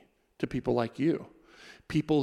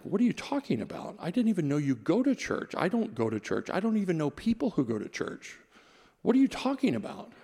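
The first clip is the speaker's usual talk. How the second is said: put-on higher, incredulous teen protest; retold annoyed teenager, pitched up in disbelief; irritated disbelief; 6 semitones higher than usual. Teen refusing friend's church invite, irritated and incredulous. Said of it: "I was kinda irritated with him".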